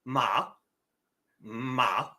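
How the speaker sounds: "ma" held long on one flat pitch; level, drawn-out "ma"; first tone. Shown as a demonstration. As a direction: keep the vowel of "ma" even to the end. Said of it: "the A stays flat and even".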